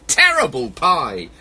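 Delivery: loud, dramatic animal protest; crying out. Acted. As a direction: wail in outrage, storybook style. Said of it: "all began to cry".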